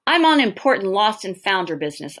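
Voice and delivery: poshest voice. Acted. Boy bluffing the manager with a posh voice. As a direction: put on a mildly posh tone. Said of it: "I say in my poshest voice".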